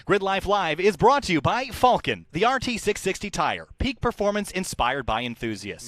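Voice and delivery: lightly hyped sponsor read; a touch of big announcer. Acted. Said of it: "And now comes announcer voice time".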